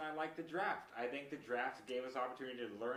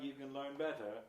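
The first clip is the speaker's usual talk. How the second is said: poorly imitated British chef accent; bad Gordon Ramsay accent. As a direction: have a clumsy go at a British accent. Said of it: "That was a bad Gordon accent".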